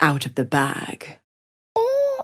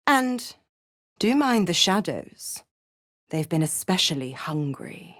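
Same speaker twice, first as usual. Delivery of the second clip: menacing whisper. Acted. Devil warning her pet about hungry shadows, menacing whisper. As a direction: drop to a hushed, teasing threat.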